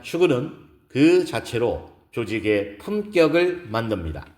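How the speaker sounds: measured keynote speech with emphatic key words; lightly voiced speaker making each point to an audience; poised woman lecturer. Gives a lecture in story. (차분하고 힘 있는 강연 말투)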